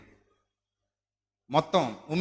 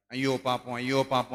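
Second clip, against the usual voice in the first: pitying sigh; 5 semitones lower than usual. Shown as a demonstration. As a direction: say it gently, feeling sorry for the child. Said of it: "అని జాలి పెంచుకోవాలి".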